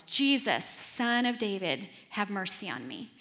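blind beggar yelling over a crowd; acted yell. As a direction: cry out to be heard, drawing out the name. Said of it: "he just yells".

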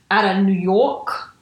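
lightly put-on New York accent; half-hearted stab at a New York accent; bad New York accent. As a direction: attempt a New York accent, not very well. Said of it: "That's not a good accent".

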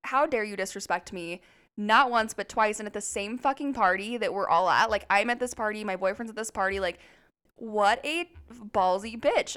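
worked-up retold outrage; heated. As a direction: relive being outraged at the disrespect. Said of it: "heated 'cause I'm like".

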